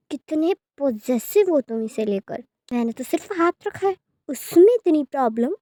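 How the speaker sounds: mocking taunt. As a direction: needle him, savouring his fear. Villain taunts the jealous lover. (ऊँची, तेज़ आवाज़ में ताना)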